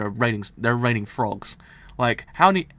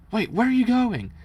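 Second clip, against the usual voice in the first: much higher, louder cry; panicked shout; 10 semitones higher, 8 dB louder than usual. Acted. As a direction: call after him as he walks away. Priest shouts as guard leaves.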